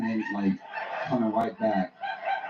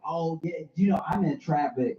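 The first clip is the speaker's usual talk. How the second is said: higher, sheepish; mock-sheepish higher voice; flustered excuse; 11 semitones higher, 6 dB quieter than usual. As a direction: babble an excuse, caught out. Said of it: "I was like".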